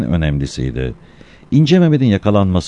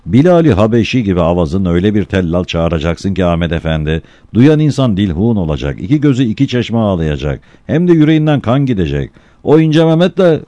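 building excitement; 2 semitones higher than usual. Acted. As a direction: get more worked up line by line. Murtaza urges crier, rising.

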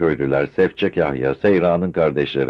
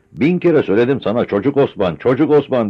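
louder, higher scolding shout; 7 semitones higher, 5 dB louder than usual. A narrator's reading. Kamer shouting at her husband, a scolding yell. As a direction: yell it right back at him. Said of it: "diye bağırdı".

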